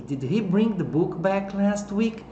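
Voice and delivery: slow, careful B in "bring", "book" and "back"; three B sounds. Shown as a demonstration. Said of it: "Tem três Bs aqui".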